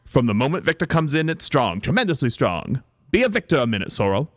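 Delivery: emphatic theatrical British; stagey British actress enthusing; British accent. Acted. Mother coaxing daughter into play-acting, British accent. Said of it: "my accent is superb".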